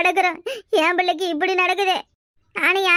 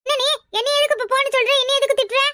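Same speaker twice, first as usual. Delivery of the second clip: indignant protest; 5 semitones higher than usual. Acted. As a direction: pitch up, demanding why she's scolded. Acted quarrel, protesting. (கோபமான உயர்ந்த குரலில் எதிர்ப்பு)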